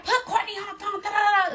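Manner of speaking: high, loud imitation of frantic friends; friends going crazy. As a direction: mimic worked-up girlfriends clamoring on a call. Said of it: "They going crazy".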